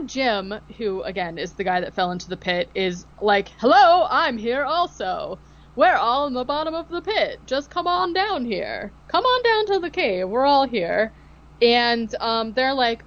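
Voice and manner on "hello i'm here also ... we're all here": ghost calling from the pit. Retold or imitated. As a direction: beckon them down like a lightly voiced ghost. Dead man calling from the pit.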